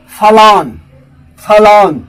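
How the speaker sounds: फलॉन said as "fa-lawn", stress on lawn; correct pronunciation. Shown as a demonstration. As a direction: say फलॉन clearly, falling tune. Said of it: "तो फलॉन correct sound है".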